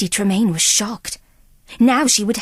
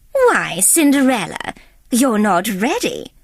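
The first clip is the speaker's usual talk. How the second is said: surprised. Acted. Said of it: "sounding surprised".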